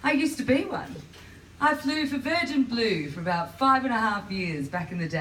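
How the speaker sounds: lightly hammed-up flight attendant patter; high airline-announcement lilt, slightly put on; cabin crew voice. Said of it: "this is how everyone spoke of Virgin Blue".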